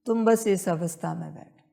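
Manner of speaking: normal talking voice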